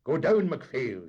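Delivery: loud, sharp dismissal; angry order. A narrator's reading. Captain ordering the engineer off, loud and angry. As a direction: send him below. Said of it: "made a push at him angrily".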